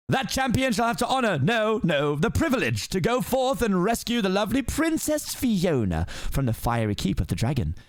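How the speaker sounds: lightly voiced pompous lord; lord's speech. Farquaad addressing the knights, lightly voiced pompous speech.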